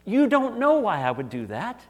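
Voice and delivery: lightly voiced God pressing the point; voicing God. God answering the pastor's complaint, a touch emphatic. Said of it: "And he says".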